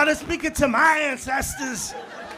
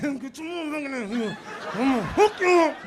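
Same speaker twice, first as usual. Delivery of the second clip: angry parent; 3 semitones higher, 5 dB louder than usual. Retold or imitated. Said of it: "You know when you get real mad".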